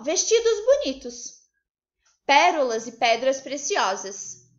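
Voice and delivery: slow, loud exclamation; exclamação. Shown as a demonstration. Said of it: "ela está exclamando". (exclamando, devagar e com força)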